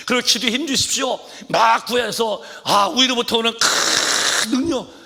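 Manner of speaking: high, loud impassioned sermon; fervent preaching. Real, not acted. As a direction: cry out like a revival preacher. Preaching at full force. (목청 높인 열정적 설교)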